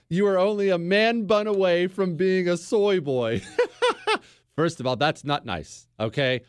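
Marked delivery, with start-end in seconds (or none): 0.1-4.5 reading it out through a laugh; chuckling through the words. Real, not acted. Host reading a fan's jab, laughing. Reads listener insult, laughing.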